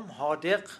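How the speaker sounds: حادق with d in place of z; Qom colloquial form. Shown as a demonstration. Linguist quotes common people of Qom, حادق said with d. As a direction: say حادق as "haa-degh". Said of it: "این رو در قم".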